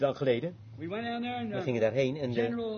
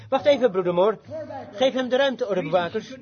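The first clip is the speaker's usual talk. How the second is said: calling out; 5 semitones higher, 4 dB louder than usual. Retold or imitated. Calling to helpers across the crowd.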